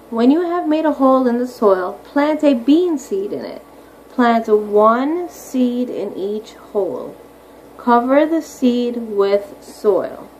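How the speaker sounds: measured, clear picture-book reading; slow read-aloud. Acted. Teacher reading planting steps to her class, slow read-aloud. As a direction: read each step slowly and plainly.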